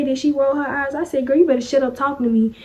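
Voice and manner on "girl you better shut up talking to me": fast, sassy threat; sassy warning. Retold or imitated. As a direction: warn her off quickly.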